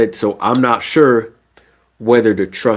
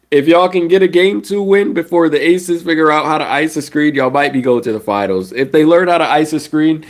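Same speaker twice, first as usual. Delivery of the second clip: excited; 6 semitones higher than usual. Real, not acted. Hyped warning to Fever fans.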